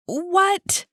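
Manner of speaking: high, loud, rising disbelief; astonished outburst. A narrator's reading. Jackie learns Annie just got here, astonished outburst. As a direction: shoot the pitch up in shock. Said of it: "threw her hands into the air".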